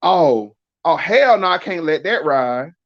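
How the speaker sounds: mock offended, hell-no reaction; put-on indignation; indignant. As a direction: act out taking offense, pitch jumping on the refusal. Acting out indignant trigger phrases.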